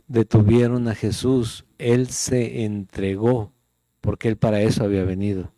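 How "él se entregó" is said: él se entregó stretched slowly, se drawn out; slow, weighty él se entregó; slow emphasis. Shown as a demonstration. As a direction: dwell on él se entregó. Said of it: "lo decimos".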